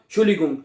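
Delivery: "शुलिगुंग" with a ng ending, as learners misread it; common mispronunciation. Retold or imitated. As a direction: say "शुलिगुंग", dropping the opening "एंट" and the d. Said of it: "ऐसे ही है ना".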